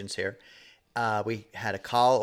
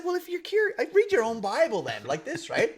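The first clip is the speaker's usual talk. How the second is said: higher, chiding boss; mock scolding; 13 semitones higher than usual. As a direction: scold it half-laughing. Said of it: "I said".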